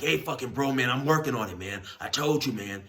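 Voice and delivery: irritated big inmate. Retold or imitated. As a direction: snap back at the guy asking for money. Big dude brushes off debt.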